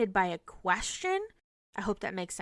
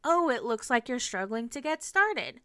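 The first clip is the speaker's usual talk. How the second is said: nonchalant; 3 semitones higher than usual. Shown as a demonstration. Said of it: "a nonchalant".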